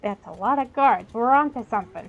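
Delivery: lively, projected reading of game text; quest text read-aloud. Acted. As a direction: read the quest briefing out to viewers.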